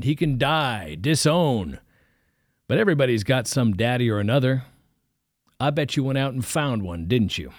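a hint of a stern Southern preacher; calling the boy's bluff, gently stern; lightly voiced old preacher. Preacher telling the student he sees the lie, mildly stern.

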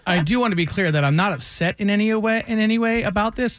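gritted teeth. Real, not acted. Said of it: "through gritted teeth".

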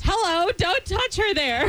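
mock LA mom. Joins mom impression.

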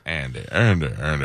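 a hint of a weary old narrator calling out; Morgan Freeman impression. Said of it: "I just nailed Morgan Freeman".

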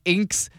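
"Inks" as a single syllable; mispronounced the band name. Retold or imitated. Trivia host retelling his misreading, mispronounced. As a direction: read the band name like the word inks. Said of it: "I was like".

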